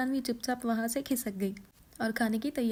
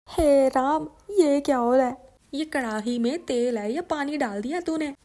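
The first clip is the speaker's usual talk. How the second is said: loud, shocked cry at the pan of oil; mother-in-law shouting at the daughter-in-law over the oil; shocked outcry; 2 semitones higher, 8 dB louder than usual. Acted.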